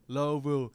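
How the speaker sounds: quoted local way of saying Lowville; locals' pronunciation. Retold or imitated. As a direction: imitate the crowd correcting with a firm LOH-vul for Lowville. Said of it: "Everyone's like".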